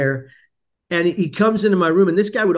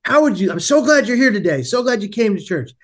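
imitated priest, high-pitched and effusive; delighted greeting; 6 semitones higher than usual. Priest to churchgoer after the service, delighted invitation. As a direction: greet him in a high, welcoming lift.

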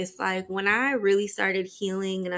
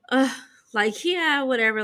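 dismissive; 4 semitones higher than usual. Retold or imitated. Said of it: "kinda became pessimistic".

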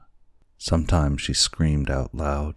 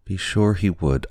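higher-pitched emphatic assurance; crying out; 6 semitones higher, 3 dB louder than usual. A narrator's reading. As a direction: insist in a raised, high voice. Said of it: "cried Kekua".

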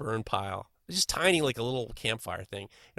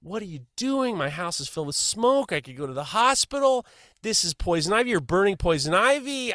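mock angry neighbor yelling, higher and louder; retold screaming neighbor; 7 semitones higher, 4 dB louder than usual. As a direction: shout it like an outraged neighbor. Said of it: "she starts screaming at us".

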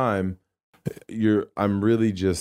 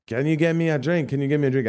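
imitating a pushy Romanian stripper, higher; a shrill-free, pushy Romanian-accented demand, pitched up; mock Romanian accent; 6 semitones higher than usual. Stripper pestering him for a drink in a mock Romanian accent. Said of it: "screaming in a Romanian accent".

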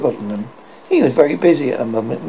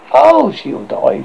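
slow, higher rueful oh, she'll die; reluctant admission; 9 semitones higher, 4 dB louder, slower than usual. Acted. Slightly conceding to Toodles, slow and rueful. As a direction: drag out Oh as a mild admission. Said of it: "slightly admitted".

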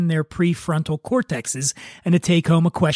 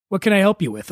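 slightly higher, polite service voice; customer service voice; 3 semitones higher, faster than usual. Acted. Bartender to an unhappy guest, customer service voice. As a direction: put on a helpful customer service voice. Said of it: "in my best customer service voice".

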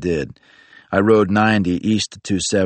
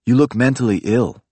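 deadpan remark; 5 semitones higher than usual. Acted. Friend's blunt remark, acted.

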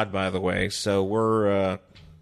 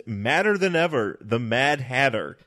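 dramatic cover read; 3 semitones higher than usual. Pretend. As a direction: sell it like a cover blurb. Reading the comic cover blurb.

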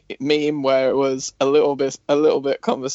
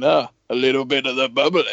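lightly imitating Chris Jericho's posh toast; a hint of a hammed-up English rock-star toast; mild mock grand announcement; Jericho impression; faster than usual. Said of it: "Why does he say it like that?".

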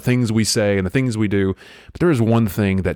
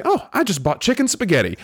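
mocking voice; 10 semitones higher than usual. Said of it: "a rotisserie chicken and say".

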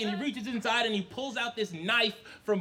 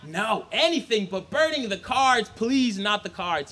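pleading. Acted. Son begs parents.

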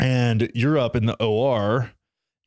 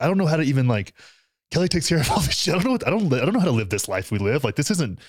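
higher, rushed retelling of panic; panicked; 4 semitones higher than usual. Retold or imitated. Husband recalls his panic while his wife is in surgery, in a higher, rushed voice. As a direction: replay the moment his nerve went. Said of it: "kind of freaking out".

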